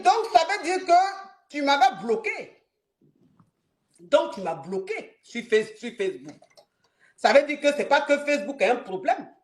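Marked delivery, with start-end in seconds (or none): 0.0-6.4 angry wife. Retold or imitated. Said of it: "la colère dans sa voix".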